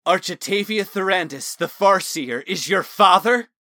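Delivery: can't believe what he heard; stunned disbelief. Acted. Talon stunned, repeats name.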